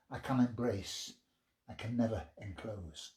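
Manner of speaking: reflective poetry reading; poem reading. Acted. Reads his poem aloud.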